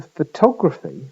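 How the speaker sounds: "photography" as fuh-TOG-ruh-fee; stress on TOG. Shown as a demonstration. Lecturer asking students to compare, second-syllable stress on "photography". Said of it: "main stress is on the second vowel".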